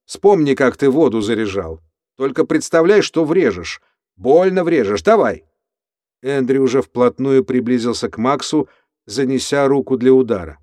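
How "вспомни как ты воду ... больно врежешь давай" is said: raised voice. Acted. Andrew yelling at his cellmate to strike, loud. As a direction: raise the voice and push him to hit. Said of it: "Эндрю повысил голос".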